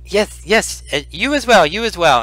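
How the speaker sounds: put-on high, fussy old man's voice; little old man. Old healer returning a farewell as he leaves, little old man voice. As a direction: hurry your goodbye as a little old healer. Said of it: "uh, little old man".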